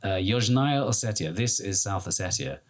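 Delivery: imitating a Russian soldier's accent, halting; Russian-accented soldier announcing the border. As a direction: mimic a Russian soldier speaking broken English. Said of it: "And he said".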